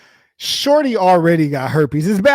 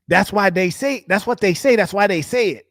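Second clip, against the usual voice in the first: higher, sing-song parroting; mock bro repeating himself, higher; 6 semitones higher than usual. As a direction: echo him back like a broken record. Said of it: "what'd you say?".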